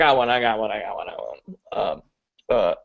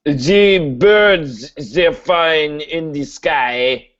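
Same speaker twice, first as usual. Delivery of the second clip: put-on slow, vague European accent; put-on foreign accent; much slower than usual. Student doing an accent on the teacher's demand, muddled foreign accent. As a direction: attempt a muddled Germanic accent, stretched out. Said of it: "give me an accent right now".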